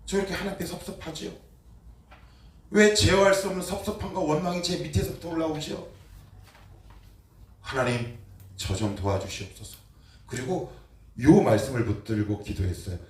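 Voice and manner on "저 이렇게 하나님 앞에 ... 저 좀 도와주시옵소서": retold prayer. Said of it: "이렇게 기도했어요".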